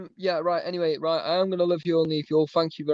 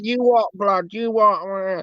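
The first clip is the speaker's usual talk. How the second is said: retold confrontation; 4 semitones higher, slower than usual. Retelling a man with a pit bull confronting him, mock aggressive challenge. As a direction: square up in a retold face-off.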